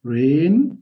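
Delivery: English R, no trill, in rain; careful English R. Shown as a demonstration. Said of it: "خلي بالك من حرف ال R".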